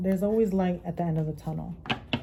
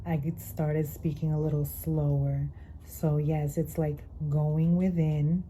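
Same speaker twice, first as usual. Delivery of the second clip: voce più profonda; 3 dB quieter than usual. Real, not acted. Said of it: "my voice got a little deeper".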